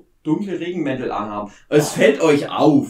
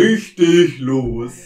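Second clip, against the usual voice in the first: airport announcement; 3 semitones lower, 5 dB louder, much slower than usual. Acted. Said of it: "die Flughafendurchsage".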